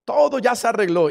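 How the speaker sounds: a hint of a sly devil coaxing; tempting devil. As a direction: lure them out sweetly like a tempter. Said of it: "Y el diablo dice".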